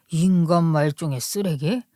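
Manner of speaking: disbelieving echo, 인간 stressed, rising at the end; incredulous echo. Acted. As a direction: repeat 인간 말종의 쓰레기 as if you can't believe it. Husband echoes the insult in disbelief. (어이없다는 듯 되묻기)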